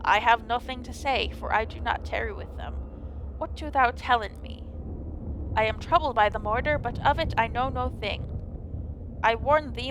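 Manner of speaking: solemn faux-archaic fairy-tale speech; lightly voiced medieval drama; mock Old English. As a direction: play it like an old legend, grave and formal. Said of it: "And very serious".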